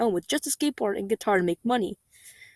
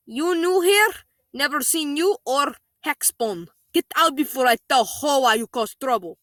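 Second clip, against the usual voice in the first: put-on old lady voice; 3 semitones higher than usual. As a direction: voice the sweet old neighbour, stern underneath. Voicing the sweet German lady.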